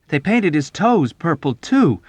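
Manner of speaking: high, loud indignation; outraged. A narrator's reading. Nately adding to the chaplain's complaint, outraged. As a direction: pipe up loudly in outrage. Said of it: "Nately added in outrage".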